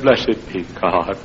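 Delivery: rising, slow, exultant cry; joyful shout. Retold or imitated. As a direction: shout it out in joy. Dancing, shouting praise in alley.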